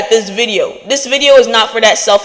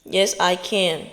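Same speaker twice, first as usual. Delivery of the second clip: much softer, slow and settled; quiet affirmation; 3 semitones lower, 9 dB quieter than usual. Shown as a demonstration. Speaker repeating the affirmation to herself, soft and slow. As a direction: say it to yourself under your breath. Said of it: "You have to yell".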